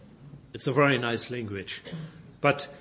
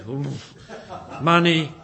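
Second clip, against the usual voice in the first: grudging; 6 dB louder than usual. Retold or imitated. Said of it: "It's another side".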